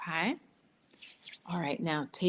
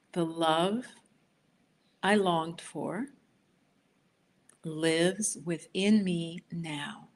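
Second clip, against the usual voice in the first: slow affirmation; much slower than usual. Shown as a demonstration. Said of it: "Repeat after me".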